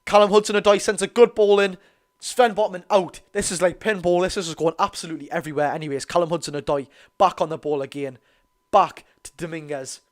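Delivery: loud, lively match call; live play-by-play. Acted. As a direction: narrate the chaos in the box like a commentator.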